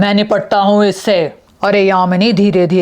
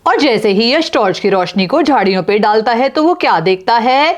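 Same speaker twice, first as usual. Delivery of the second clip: story narration; 3 semitones higher than usual. A narrator's reading.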